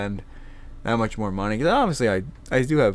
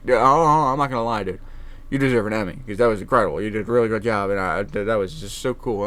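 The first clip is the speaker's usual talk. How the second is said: genuine admiring praise; 4 dB louder than usual. Retold or imitated. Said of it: "And he was like".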